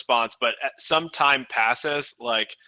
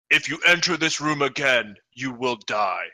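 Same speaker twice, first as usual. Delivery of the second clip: booming voice. Acted. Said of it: "you hear in a booming voice".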